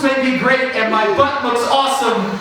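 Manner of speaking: high, slow, loud sage advice; wise old Eric. Pretend. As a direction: preach it like a grizzled old man. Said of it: "I hear him and he goes".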